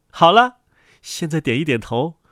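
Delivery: high, loud prompting to the brood; high-pitched motherly command; bossy mother duck. Acted. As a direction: chivvy the ducklings in a high voice.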